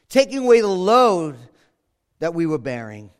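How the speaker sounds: a hint of full-force preaching. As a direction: build it with full conviction. Preaching climax on Christ's burden.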